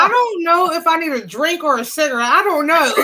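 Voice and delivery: helplessly overcome, laughing by the end; real laughing fit. Real, not acted. Woman telling friends she needs a drink, cracking up laughing. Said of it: "That's how hard I'm laughing".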